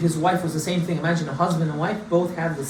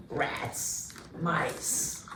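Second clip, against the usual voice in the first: hushed; 2 semitones lower, 12 dB quieter than usual. Acted. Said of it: "listing prison horrors, hushed".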